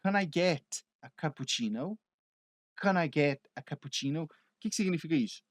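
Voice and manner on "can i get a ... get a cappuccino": "Can I get a cappuccino" run together, canaiget; linked phrase. Shown as a demonstration. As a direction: join the words smoothly like a native. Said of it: "como que você vai falar?". ("Can I get a cappuccino" tudo emendado)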